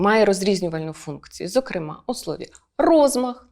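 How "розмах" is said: "розмах" as ROZ-makh; first-syllable stress. Shown as a demonstration. Teacher shows where the stress falls, "розмах" stressed on РОЗ. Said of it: "наголос падає на перший склад".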